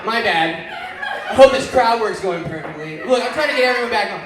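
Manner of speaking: ordinary delivery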